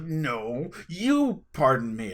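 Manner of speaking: slow, playful challenge on "you"; mock fighting. Two laughing strangers squaring up over manners, mock combative. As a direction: square up in jest, drawing out the words. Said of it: "we put our dukes up".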